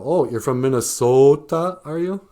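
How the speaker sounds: mock long O. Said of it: "And I'll go".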